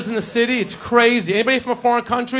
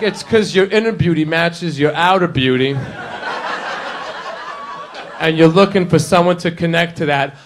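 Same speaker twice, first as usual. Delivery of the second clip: mock sincere charmer; 4 semitones lower than usual. Making up astrology to charm her.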